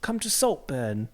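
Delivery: slow posh British invitation; slow upper-class British accent. Acted. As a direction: draw it out like a British toff. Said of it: "how does the posh person say Saltburn?".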